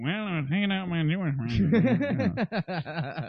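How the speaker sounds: slow put-on Jewish accent; mock him with a Jewish accent. Mocking friend's changed voice.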